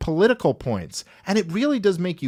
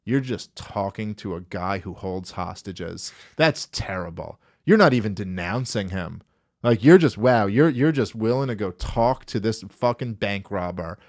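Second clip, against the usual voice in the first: mock scandalised pundit; 6 semitones lower than usual. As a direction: play a pearl-clutching commentator, scandalised. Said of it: "you went right up to the guy and you went".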